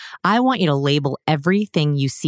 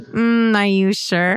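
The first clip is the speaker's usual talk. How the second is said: doubting parent; 4 semitones higher, much slower than usual. Retold or imitated. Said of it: "I'm like".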